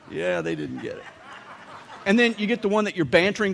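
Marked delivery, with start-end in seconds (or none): 0.1-1.0 breathy laugh-through line, whispered; mock laughing at a joke that fell flat; laughing at own joke. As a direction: chuckle the words out after a joke flops. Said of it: "stand there laughing at your own joke".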